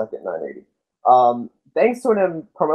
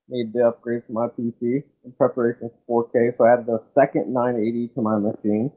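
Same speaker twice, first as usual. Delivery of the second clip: muffled. Real, not acted. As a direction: voice muffled as if through a wall. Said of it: "Nick, you sound muffled once again".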